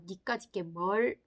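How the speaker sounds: slow, drawn-out scorn; a slow, withering put-down; contemptuous sneer. Acted. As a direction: look down on the child. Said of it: "막 이런 눈빛 있잖아요".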